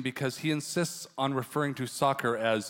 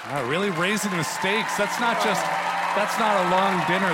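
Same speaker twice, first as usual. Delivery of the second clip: excited. Real, not acted. Host reacting loudly.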